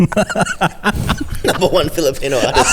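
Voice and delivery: laughing. Acted. Repeats with laughing emphasis.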